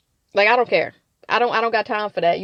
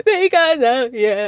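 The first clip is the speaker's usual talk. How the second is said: loud, slow mock accusation, less high; mocking Kristen; 3 semitones higher, 6 dB louder, slower than usual. Host mimicking Kristen blaming Cece again, loud and slow. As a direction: repeat the jab, slower and emphatic. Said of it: "Kristen says".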